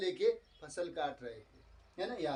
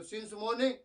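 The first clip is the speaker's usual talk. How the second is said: curt retort, lightly acted; mock angry; 3 semitones higher, much slower than usual. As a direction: clip it back crossly. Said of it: "ऐसे गुस्से से बोला".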